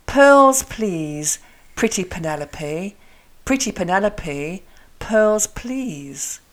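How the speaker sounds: crisp aspirated P in "pearls, please"; "pretty Penelope" as a careful practice phrase; spaced phrases, popping each P in "pretty Penelope"; P articulation drill. Shown as a demonstration. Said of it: "So try this".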